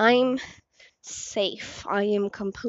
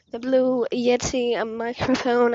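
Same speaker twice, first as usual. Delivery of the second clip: accidental British accent, a bit louder; 5 dB louder than usual. Real, not acted. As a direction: slip briefly into a British accent. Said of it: "I did that British accent there".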